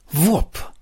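short voiced sound effect; imitated whoop noise. A narrator's reading. Narrator imitating the attack from the pile, short whoop. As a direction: mimic a sudden evil blast in one syllable. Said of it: "Il suono malvagio giungeva".

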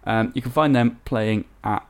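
robot voice. Acted. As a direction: read it out like a robot. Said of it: "weird and robotic".

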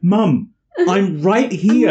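high, slow, drawn-out protest; slow whiny protest. Retold or imitated. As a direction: drag it out, embarrassed teen. Bert protesting, embarrassed.

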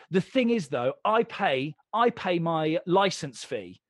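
slow, drawn-out mock drunk complaint; drunk woman. Retelling a drunk woman's rant at a bar, mock slurred and slow. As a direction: lightly play a tipsy woman laying down the law. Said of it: "she's fairly drunk at this point".

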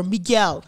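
"Miguel" as mee-GELL, punched end; second syllable of "Miguel" leaned on; imitated odd pronunciation. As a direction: mimic his odd "Miguel". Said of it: "he says it so weird".

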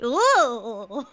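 swooping, drawn-out "ooh"; long melting "ooh" with a laugh; drawn-out sympathetic ooh. Retold or imitated. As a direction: coo it like a moved viewer. Imitating viewers' reaction to tender line.

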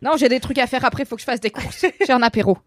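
put-on bossy French with a German accent; playfully stern German-accented French. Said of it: "Pourquoi t'as pris un accent allemand?".

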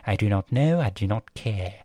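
mock posh British accent; lightly put-on posh English. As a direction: imitate a posh, formal speaker. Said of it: "like, posh in terms of".

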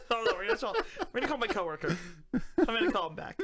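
trying not to laugh; words leaking giggles; stifled giggles. Real, not acted. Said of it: "stop laughing".

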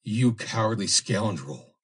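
scornful rage. Acted. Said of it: "eyes ablaze with scorn and rage".

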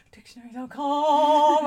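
high and loud, slow; hurrying to look it up; mock urgent. Retold searching for a word.

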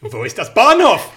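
loud, high laughing tourist German; mock tourist German, laughing; phrasebook German. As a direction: bark the phrasebook line.

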